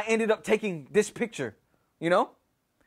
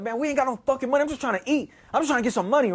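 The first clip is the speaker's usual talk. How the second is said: higher, hurried excuse; retold defensive pleading; 5 semitones higher, faster than usual. Son explaining the drugs to his mom, retold defensive plea. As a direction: rush out a justification, acting it out.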